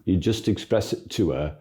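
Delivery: a light put-on Yorkshire accent; half-hearted Yorkshire lilt, played for a laugh. Teacher jokes about praying to Mary in a mild Yorkshire accent. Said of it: "That was supposed to be a Yorkshire accent".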